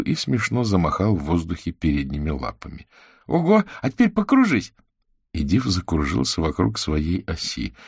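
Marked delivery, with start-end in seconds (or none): 3.1-4.7 put-on very high, louder child's cry; a girl thrilled at her dog's trick; delighted girl. A narrator's reading. Girl excitedly orders the dog to spin, very high.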